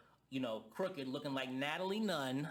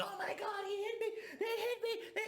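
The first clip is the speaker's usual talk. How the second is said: very high, squealing falsetto whine; mock whining victim. Mocking Bobby crying after getting hit, high squeal. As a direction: whine like a big baby who just got hit. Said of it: "And act like".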